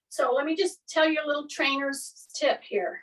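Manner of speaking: ordinary delivery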